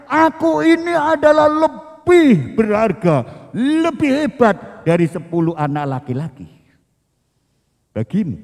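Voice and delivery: a hint of an arrogant husband; egotistic. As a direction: puff yourself up like a proud husband. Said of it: "egonya Elkana".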